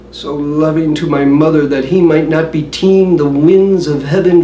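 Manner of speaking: measured, brooding stage monologue; Hamlet soliloquy recitation. Acted.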